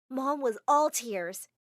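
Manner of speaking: ordinary delivery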